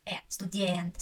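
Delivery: "э", then "студент" with a stretched open e; stressed е as э. Shown as a demonstration. Teacher explaining stressed е, "студент" with long open e. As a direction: isolate the vowel, then hold it in "студент". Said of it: "so I say".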